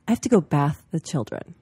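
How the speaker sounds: imitating a borrowed New Zealand phrase; hint of mock New Zealand speech; New Zealand accent. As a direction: lightly put on New Zealand vowels. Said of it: "husband is from New Zealand".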